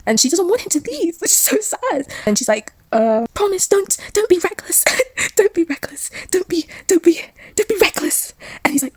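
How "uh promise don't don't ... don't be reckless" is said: mock tearful pleading. Wife begging her husband not to be reckless, mock tearful plea.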